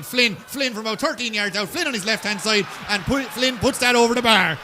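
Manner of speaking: rising shout as Flynn scores; excited commentary. Real, not acted. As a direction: call the score with growing excitement.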